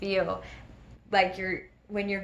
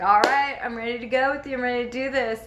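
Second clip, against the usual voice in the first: higher, eager retold declaration; pumped-up readiness; 4 semitones higher, faster than usual. First-time jumper telling the owner she's ready, pumped-up readiness. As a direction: psych yourself up to jump.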